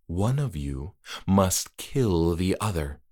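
slow, low verdict; ominous host. Acted. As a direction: deliver it like a sentence. Trick-or-treater states rule.

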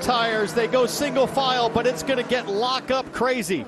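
loud restart call; excited race call. Real, not acted. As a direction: shout the green flag restart.

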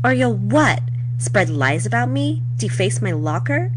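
high-pitched, challenging questions; acted taunt. Teen answering a threat from a rival, taunting. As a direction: dare the rival, voice lifted high.

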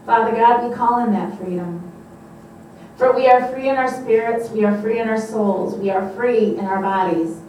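forceful preacher's prayer; emphatic, rhythmic praying aloud; declarative prayer. Real, not acted. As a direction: open strongly and proclaim it over the congregation.

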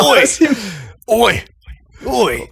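separated Australian calls of "oi"; mock Aussie. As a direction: play the Australian, pausing between calls. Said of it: "Aussie Mike Tyson".

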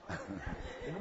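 low, soft chuckle; brief low laugh. Real, not acted. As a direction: chuckle quietly to yourself. Preacher laughs amid the story.

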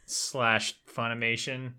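understated put-on hostility, not shouted; mock aggro. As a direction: curse them out softly for show. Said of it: "to be all aggro there for a second".

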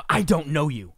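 a snooty, dismissive brush-off; snotty. Shown as a demonstration. Mocking the woman at the gate, snooty and dismissive. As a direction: look down your nose as you say it. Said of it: "In the snot".

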